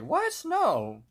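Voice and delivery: high squeaked question, then loud no; mock startled, hasty denial; caught-out denial. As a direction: imitate someone caught red-handed. Caught out, denies it in retelling.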